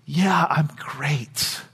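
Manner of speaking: slow, low whisper through tears; hushed, tear-choked reply, acted; imitating tearful boy. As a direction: whisper it slowly as the crying child. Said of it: "wipes away his tears".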